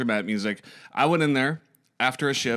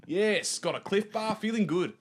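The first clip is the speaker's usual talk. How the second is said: upbeat put-on Aussie, pitched up; chirpy mock-Australian banter; Australian accent; 5 semitones higher than usual. Host echoing his co-host about feeling good, playful Australian accent. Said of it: "Australian accent isn't quite as good as Max's".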